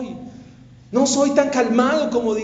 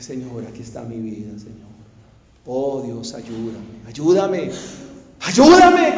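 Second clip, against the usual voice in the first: desperate prayer; 9 semitones lower than usual. Retold or imitated. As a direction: start broken and low, then cry out the last ayúdame. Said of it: "con desespero, con lágrimas".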